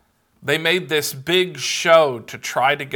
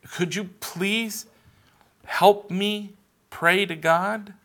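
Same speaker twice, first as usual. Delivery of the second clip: put-on little boy; 7 semitones higher, slower than usual. Pastor voices little boy at camp.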